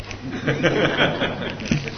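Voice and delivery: quiet chuckle after the punchline; soft real chuckle; laugh. Real, not acted. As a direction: let out a soft, rippling laugh.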